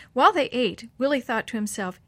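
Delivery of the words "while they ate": usual speaking voice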